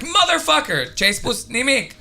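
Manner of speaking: high, loud mock outburst in Romanian; mock angry swearing. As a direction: spit out the curse like a furious driver. Acted angry road swearing.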